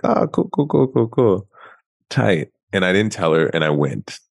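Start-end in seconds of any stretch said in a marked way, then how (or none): 0.0-2.5 fake enthusiasm. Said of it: "And I was like".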